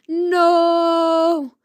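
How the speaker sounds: loud high drawn no; cry out. Acted. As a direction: protest in alarm. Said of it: "cried the pair".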